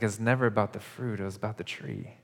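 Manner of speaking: gentle, sorrowful voice of a let-down friend; heartbroken. Retold or imitated. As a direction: speak it as a friend whose heart is breaking. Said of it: "I read it like Jesus' heart is breaking".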